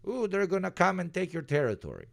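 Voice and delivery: high-pitched mock-scared warning; mock alarm. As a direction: play up the threat with a high 'ooh'. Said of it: "that's the threat".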